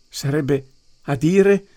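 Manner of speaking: high, slow, startled voice; anguished. A narrator's reading. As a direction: gasp it out in alarm. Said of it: "si angosciò Dunn sussultando".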